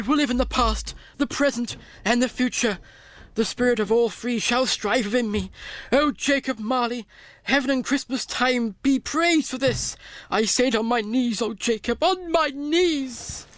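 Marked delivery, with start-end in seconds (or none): 5.9-13.5 fervent thanks. Acted. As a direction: pray it with shaking gratitude. Scrooge's fervent kneeling thanks.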